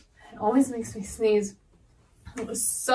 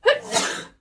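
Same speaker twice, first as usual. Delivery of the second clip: sneeze buildup; 9 semitones higher than usual. Acted. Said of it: "another sneeze attack".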